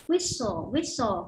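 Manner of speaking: Whistle said as wissle, no t sound; silent t. Shown as a demonstration. Teacher models Whistle with a silent t. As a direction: drop the t in Whistle. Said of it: "âm T ở giữa bị câm nhá".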